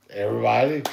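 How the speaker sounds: loud, high Everybody; emphatic insistence. Retold or imitated. Husband answering his wife, loud high insistence. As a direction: declare it as plain fact. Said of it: "I was like".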